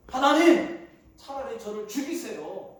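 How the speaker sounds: mock angry. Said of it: "지금 성질을 부리고 있습니다".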